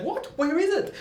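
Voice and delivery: high, startled question; alarmed. Retold or imitated. Storyteller hearing Jesus stole cocaine, high and alarmed. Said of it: "And I'm like".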